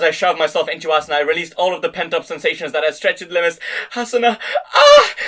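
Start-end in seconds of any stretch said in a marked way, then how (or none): 3.9-5.1 loud cry. A narrator's reading. Hero cries out at climax.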